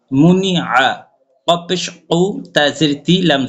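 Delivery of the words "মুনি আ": মুনি আ pressed hard and firm; with emphasis. Shown as a demonstration. Teacher showing the pressed Arabic sound, emphatic. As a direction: lean into মুনি with weight. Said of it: "চাপ দিয়ে পড়তে হবে".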